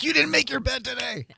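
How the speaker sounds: high-pitched scolding voice; mock scolding mom. Pretending to scold the fire captain about his bed, pitched high. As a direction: scold him like a fussy mother, way up high. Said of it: "Be like".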